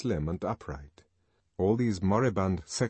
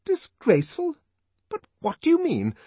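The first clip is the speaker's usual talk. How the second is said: high, loud, incredulous nurse; truculent warning; 12 semitones higher, 7 dB louder than usual. A narrator's reading. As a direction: warn him off truculently. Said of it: "she warned him truculently".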